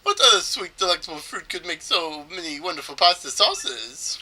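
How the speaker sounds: lightly hammed Italian-accented trader; bad Italian accent. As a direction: wonder aloud in a mock Italian accent. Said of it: "supposed to do an Italian accent".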